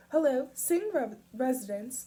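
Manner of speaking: chirpy mom answering the phone; bright high voice. A narrator's reading. Mom answering the landline, bright and high. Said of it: "said a bright, high voice".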